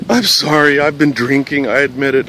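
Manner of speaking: mildly acted distraught caller; retold upset admission; imitated crying caller. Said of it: "she's crying very hard".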